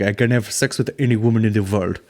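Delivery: mock Indian accent for a boastful yoga guru. Comedian quoting the Bikram guy, mock Indian accent. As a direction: put on a hammy Indian accent. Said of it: "the Bikram guy is like".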